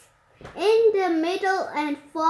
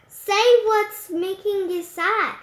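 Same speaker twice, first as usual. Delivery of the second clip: gently; 3 semitones higher than usual. Acted. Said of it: "she said gently".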